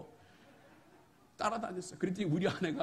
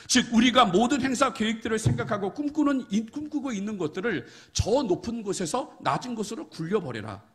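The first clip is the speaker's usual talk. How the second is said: louder preacher's urging; earnest preaching; 6 semitones higher, 8 dB louder than usual. Acted. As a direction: urge them to let go of their plans. Preaching on the verse. (간절한 설교)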